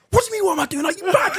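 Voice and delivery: imitating a furious player, hammed up; mock ballistic. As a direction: play the penalty taker losing it, half laughing. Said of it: "going ballistic".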